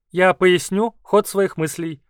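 slow, squeaky creature voice; squeaking. Acted. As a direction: squeak it out deliberately. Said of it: "пропищал Кауру".

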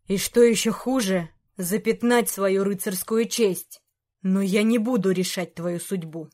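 put-on the old king reproaching his knight, heavy and stern; disappointed king.

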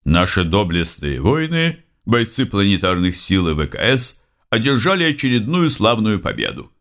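lightly voiced official TV announcer; professional news announcer. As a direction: read it like state news. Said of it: "хорошо поставленный голос профессионального диктора".

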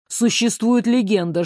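ordinary delivery, nothing marked

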